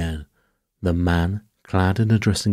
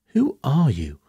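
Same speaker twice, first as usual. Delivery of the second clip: alarmed demand; 7 semitones higher, 3 dB louder than usual. Acted. Alarmed woman confronts intruders in story.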